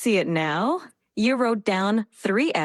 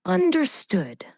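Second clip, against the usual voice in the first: whisper; 8 semitones higher than usual. Acted. Dramatic whisper before story.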